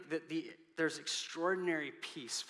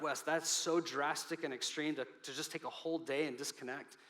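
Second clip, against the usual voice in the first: higher, louder, fast incredulous listener; mock objection; 3 semitones higher, 5 dB louder than usual. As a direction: play the doubtful churchgoer pushing back. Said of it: "you're like".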